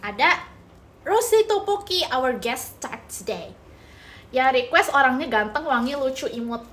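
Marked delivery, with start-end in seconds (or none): 1.0-3.6 mock announcer. Real, not acted. Announcing the guest star.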